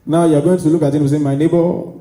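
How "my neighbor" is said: lightly voiced rich-man greeting with a rise at the end; a hint of a wealthy big man; billionaire voice. Shown as a demonstration. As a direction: greet your neighbor like you just made millions. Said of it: "talk like a billionaire".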